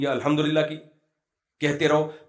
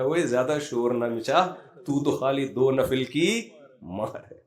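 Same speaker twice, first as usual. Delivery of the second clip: drawn-out telling-off to the calf; mock rebuke of a crying calf, slow and deliberate; slow mock scolding; 2 semitones lower than usual. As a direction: scold it slowly, half teasing. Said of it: "کہہ رہا".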